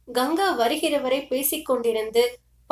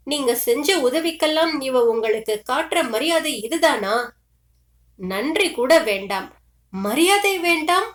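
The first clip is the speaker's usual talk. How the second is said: a mother's raised, half-wailing curse, lightly acted; lightly voiced mother cursing her daughter through tears; tearful cursing; 2 semitones higher than usual. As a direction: narrator lifts the voice into a grieving mother's outburst. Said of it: "தன் வசமிழந்து சபிக்கிற மாதிரி துயரமும் அழுகையுமாய் குரல் உயர்த்தி".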